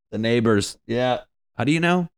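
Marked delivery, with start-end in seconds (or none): 1.6-2.1 mock high question. Voicing the family.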